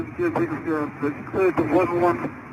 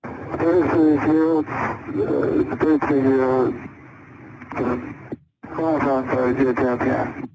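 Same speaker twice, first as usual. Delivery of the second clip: real hypoxic confusion, halting and fumbling the numbers; disoriented; 3 semitones lower than usual. Real, not acted. Hypoxic pilot fumbling a readback to the controller, confused and halting. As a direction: lose the thread mid-readback, groping for words. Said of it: "you sound a little disoriented".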